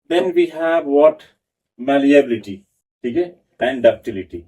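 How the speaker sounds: slow note dictation to a class; dictating notes. Acted. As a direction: read it out slowly so students can write.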